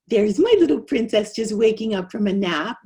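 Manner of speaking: lightly voiced mommy greeting; a touch of baby talk to your little girl; doting mommy. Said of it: "mommy comes home from work and says".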